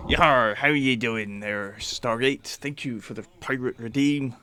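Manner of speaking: West Country pirate growl; hearty pirate, rolling the words. Pretend. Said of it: "my Hobbit voice is to my pirate voice".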